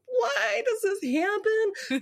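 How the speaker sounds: high, stretched-out mock wail; exasperated wail. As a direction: cry it out in hammed-up despair. Acted exasperation at his remark.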